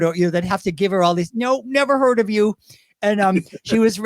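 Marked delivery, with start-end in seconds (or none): 1.3-2.6 lightly cantankerous diva, pitched up; a famous singer. Acted. Impersonator as a famous singer rejecting a celebrity caller, mildly cantankerous. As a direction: brush them off in a higher put-on voice. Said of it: "she was cantankerous and she'd hang up".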